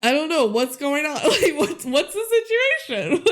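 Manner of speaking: laughing through a clueless brother's line; half-laughing, playing him dumb; a touch of a confused brother, giggling. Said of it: "And he goes".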